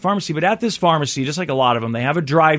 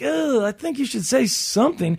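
exasperated aside; 7 semitones higher, 3 dB quieter than usual. Retold or imitated. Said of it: "it's like".

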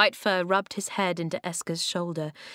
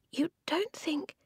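hushed, tentative whispered question; 9 semitones higher, 5 dB quieter than usual. A narrator's reading. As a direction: whisper it softly. Voiceless girl whispers to companions.

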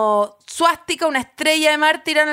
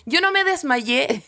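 slow emphatic recounting; 3 semitones lower than usual. Real, not acted. Comic emphatic recount of twelve faints.

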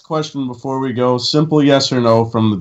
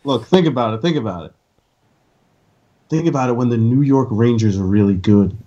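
sultry voice; 3 semitones lower, faster than usual. Acted. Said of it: "Why are you using your sultry voice".

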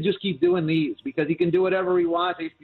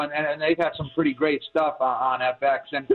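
talking through hiccups; speech broken by hiccups. Real, not acted. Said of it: "I got the hiccups a little bit".

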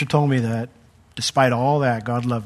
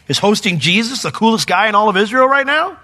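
mock outrage; 8 semitones higher, 5 dB louder than usual. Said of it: "mock disbelief".

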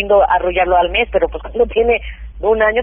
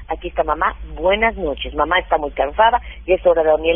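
low, even bedtime reassurance; madre que calma; 4 semitones lower than usual. Acted. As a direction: soothe the child to sleep, pitch dropped. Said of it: "Y lo calmas". (voz grave y tranquilizadora de mamá)

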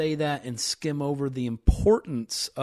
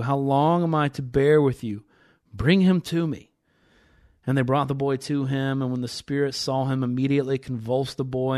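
measured, emphatic Bible reading; scripture reading; 4 dB louder than usual. Acted. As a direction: read the passage aloud with building emphasis. Reads scripture aloud.

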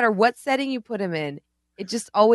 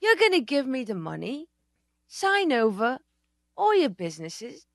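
halting, timid impression with pauses; put-on timid speech, pitched up; timid talk; 6 semitones higher than usual. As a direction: imitate a man timidly laying out a deal. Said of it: "it was like a timid talk".

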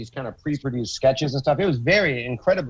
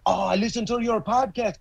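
higher, put-on New York accent for a fan; 8 semitones higher than usual. Comedian imitates a fan at the Comedy Store, New York accent. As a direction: play the fan who knows the podcast, in a New York accent. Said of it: "that was my New York accent".

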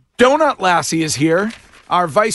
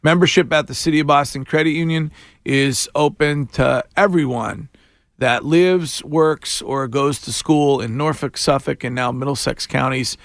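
upbeat sponsored weather and ad read. Acted. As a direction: read it like a radio sponsor spot.

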